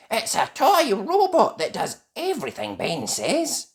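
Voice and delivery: put-on high child character voice; fairy princess. A narrator's reading. Holly explaining the robot to Nanny, high voice.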